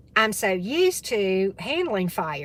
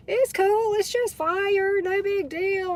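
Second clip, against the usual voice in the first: higher, slow, breezy shrug of a voice; cool and collected; 11 semitones higher, slower than usual. Retold or imitated. Telling her friend on the phone the stove fire is nothing, nonchalant. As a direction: play it totally unbothered. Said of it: "real cool, calm, and collected".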